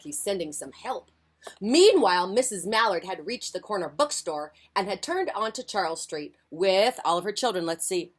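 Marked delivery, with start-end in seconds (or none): 1.6-7.7 lively picture-book reading; expressive storytime voice; story narration. A narrator's reading. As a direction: read it aloud to young children. Reads picture book to children.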